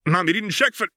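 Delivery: put-on high young girl calling out; a little girl's sudden warning; high, girlish and urgent; child's voice. Character's warning cut off.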